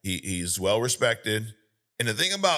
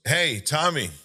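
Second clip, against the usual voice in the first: raised-pitch needling call; mock provocation, pitched up; retold taunt; 6 semitones higher than usual. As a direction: imitate a guy goading someone across a bar.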